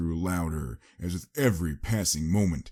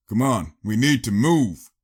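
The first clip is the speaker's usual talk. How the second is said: urgent; 5 semitones higher, 7 dB louder than usual. A narrator's reading. Wester urges escape.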